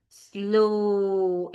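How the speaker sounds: 'Slow' held long and stressed; elongated SLOW. Shown as a demonstration. Trainer shows teachers the word, stressed and elongated. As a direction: stretch out the vowel in 'Slow'. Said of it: "it has to be stressed and elongated".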